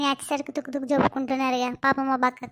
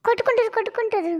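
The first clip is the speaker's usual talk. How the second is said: gleeful cheering; 7 semitones higher than usual. Acted. Onlooker cheering the fight.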